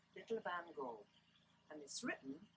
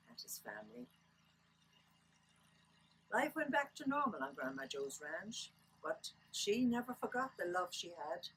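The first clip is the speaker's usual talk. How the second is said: lilting Irish storyteller reading aloud; story narration. Acted. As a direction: read a children's book aloud, lilting Irish. Reads picture book aloud.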